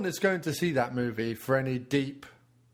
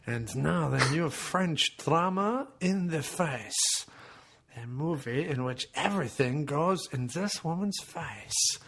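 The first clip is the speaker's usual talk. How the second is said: mock French trailer.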